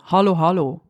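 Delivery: light sing-song "Hallo, hallo"; imitating mom. Co-host echoes the mother's WhatsApp greeting, sing-song. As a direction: echo the mother's greeting playfully. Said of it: "bei deiner Mutter".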